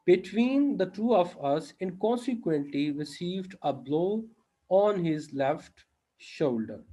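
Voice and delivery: very slow, deliberate teacher's reading; slow read-aloud. Acted. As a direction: read it out phrase by phrase, with pauses. Reads exercise sentence slowly aloud. (धीरे-धीरे, रुक-रुक कर पढ़ते हुए)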